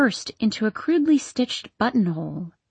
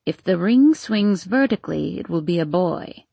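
put-on muttering old woman. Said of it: "muttered the old woman".

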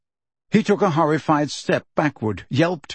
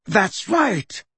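higher, cheerful agreement; 6 semitones higher than usual. A narrator's reading. Dumbledore owning up to Fudge, cheerfully. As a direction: confirm it cheerfully, with a lift. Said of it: "said Dumbledore cheerfully".

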